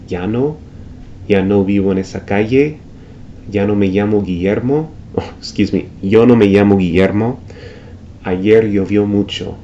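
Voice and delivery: ya no me llamo Guillermo with ll said like the y in yes. Shown as a demonstration. Teacher showing the River Plate y like yes. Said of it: "like the Y in yes".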